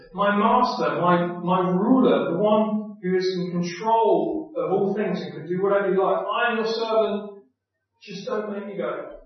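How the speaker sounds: butter up the master, then back out; flattering refusal. Acted. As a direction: Moses flattering God before begging off. Moses flattering God then refusing.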